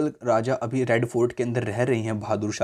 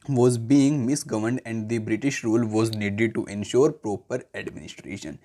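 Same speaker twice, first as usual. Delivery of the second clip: slow, measured classroom reading; textbook read-aloud; much slower than usual. Real, not acted. Teacher reading the history textbook to students, measured read-aloud. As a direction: read it out word by word, deliberately.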